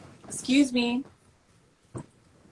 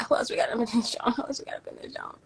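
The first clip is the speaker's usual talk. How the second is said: whisper; 4 semitones higher, faster than usual. Real, not acted. Whispered repeat of question.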